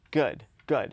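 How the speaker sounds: "Good, good" each given its own falling stress; emphatic "good". Acted. Parent to himself after a sleepless night, emphatic "good". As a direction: land firmly on both "good"s. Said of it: "emphasis on the word good".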